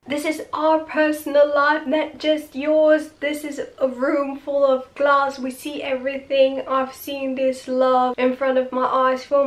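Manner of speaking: imitating an assistant's outburst at his boss; mock screaming. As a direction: act out a hurt outburst at the boss. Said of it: "starts screaming".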